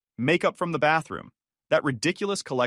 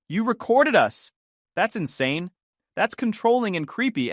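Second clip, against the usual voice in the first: high-pitched, indignant accusation; outraged; 9 semitones higher, 4 dB louder than usual. A narrator's reading. Wife learning she was recorded, outraged. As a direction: accuse in high, affronted tones.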